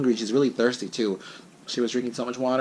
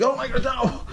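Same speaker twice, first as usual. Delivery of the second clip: high-pitched, toned-down mock scream; imitated scream; 13 semitones higher than usual. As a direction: re-enact your panicked scream, holding back the volume. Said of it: "I screamed so loud".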